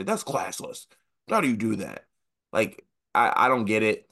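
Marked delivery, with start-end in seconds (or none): 0.0-2.1 mock outraged Karen scolding; full Karen. Mimicking a coach in the handshake line, mock indignant. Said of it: "you go full Karen".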